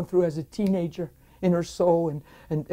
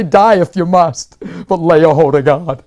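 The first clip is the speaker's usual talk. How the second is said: fervent preaching quote; 10 dB louder than usual. Retold or imitated. Minister quoting an old preacher to his friend, fervently.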